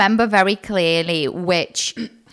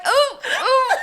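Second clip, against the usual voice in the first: high laughing yelp. Retold or imitated. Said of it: "I'm like".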